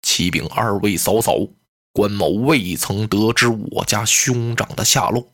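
low, measured general's voice, slowing at the end; a dignified general speaking gravely; low, weighty heroic general; Guan Yu's voice. Acted. Guan Yu answers his sisters-in-law.

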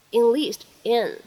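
"enlist in" run together into one word; slow linked "enlist in"; linked reading. Shown as a demonstration. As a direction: link "enlist" straight into "in". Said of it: "我们可以读成enlist in".

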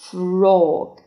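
"Frog" with a long, rounded aw vowel; first pronunciation. Shown as a demonstration. Teacher models a new word's first reading, "Frog" with long aw. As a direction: say "Frog" loudly, drawing out a rounded o. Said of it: "第二种读法".

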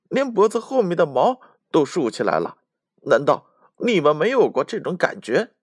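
high, loud squeaky retelling; frightened mouse. Acted. Mouse telling the foxes about the cat, high and anxious. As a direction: squeak through the scary memory.

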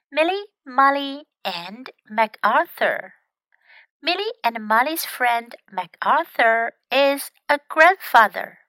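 put-on measured read-aloud for young learners; story narration. Teacher reads a story to young English learners, story narration. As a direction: read it out clearly, like a picture book.

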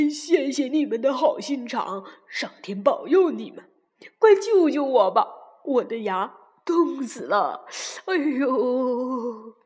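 kneeling fox begging for help, groaning at the end; pleading fox. A narrator's reading. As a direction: fox on his knees, begging the dentist to save him.

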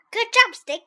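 high, loud, pleased praise. A narrator's reading. Anansi praising his magic stick, high and pleased. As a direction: praise it brightly, pitched right up.

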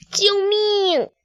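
high startled yelp; cry for help. Acted. Chick waking on the flying carpet, crying for help. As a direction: yelp in sudden fright.

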